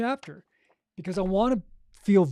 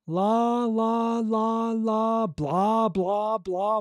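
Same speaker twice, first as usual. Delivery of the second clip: loose-jaw babble; 3 semitones higher, 3 dB louder, much slower than usual. Shown as a demonstration. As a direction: babble freely, lips and jaw relaxed. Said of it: "whatever words you wanna say".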